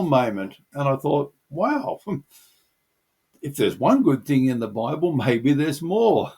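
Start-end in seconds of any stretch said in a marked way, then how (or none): 1.5-6.3 laughing wonder. Retold or imitated. Recalling delighted realisation.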